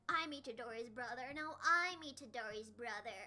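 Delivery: lightly voiced low rival claim; rival brothers imitation. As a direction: drop the pitch, imitating a guy staking his claim.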